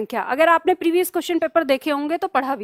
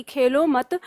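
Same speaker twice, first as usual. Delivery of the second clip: "खेलो मत" run together, stop after "मत"; no break between "खेलो" and "मत"; खेलो मत as one unit; slower than usual. Shown as a demonstration. Teacher quotes student's misreading, pause after "मत". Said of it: "जैसे मैंने पहले बोला".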